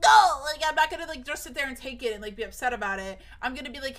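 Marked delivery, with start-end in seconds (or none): 0.0-0.4 sharp no. Retold or imitated. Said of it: "sit there and be like".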